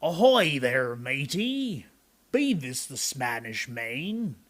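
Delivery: loud, slow pirate call; head pirate yelling ahoy from the boat; pirate captain hail. Acted. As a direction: hail the boy like a gruff sea captain. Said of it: "the head pirate climbed out of the boat and yelled".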